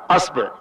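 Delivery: أصبع with a then i, asbiʕ; أصبع, open a then short i, asbiʕ; asbiʕ with fatha. Shown as a demonstration. Teacher demonstrates the last fatha variant, asbiʕ. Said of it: "نأتي بفتح الهمزة".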